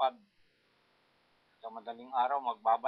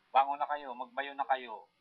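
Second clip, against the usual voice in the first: louder rousing call to get up; calling to wake up; 3 semitones higher, 7 dB louder than usual. Retold or imitated. Old farmer imitates his father waking the children at three, rousing call. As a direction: rouse sleeping kids to pound rice.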